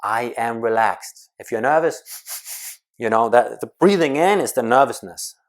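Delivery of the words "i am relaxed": slow, settled reassurance to oneself; relaxed self-talk. Pretend. Speaker telling their body to calm down, slow and relaxed. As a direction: tell your own body slowly that it's calm. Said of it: "You tell your body".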